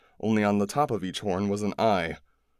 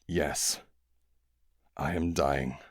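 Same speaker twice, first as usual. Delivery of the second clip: lightly lower, calm alien voice; dying alien; 5 semitones lower, slower than usual. A narrator's reading. Dying alien answering the kids, low and weary. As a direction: speak slow and weary as a dying being.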